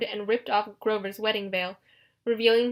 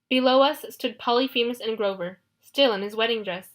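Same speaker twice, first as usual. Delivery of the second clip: plain reading voice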